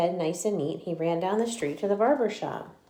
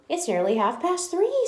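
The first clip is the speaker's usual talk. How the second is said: Dandelion voice; 11 semitones higher, 3 dB louder than usual. Acted. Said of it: "said Dandelion".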